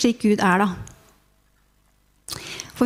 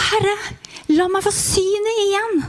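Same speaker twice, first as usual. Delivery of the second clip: pleading; 9 semitones higher than usual. Acted. Blind man begging for sight.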